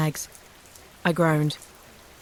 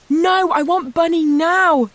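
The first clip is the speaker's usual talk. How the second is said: high, loud, slow crying wail; tearful child; 12 semitones higher, 6 dB louder, slower than usual. A narrator's reading. Little girl in tears demands her Bunny, high, loud and slow. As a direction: sob it out like a small child. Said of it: "She burst into tears".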